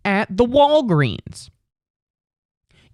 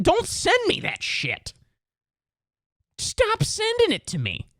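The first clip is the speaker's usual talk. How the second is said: mock whiny plea; 5 dB quieter than usual. Reacting to girlfriend's TikToks.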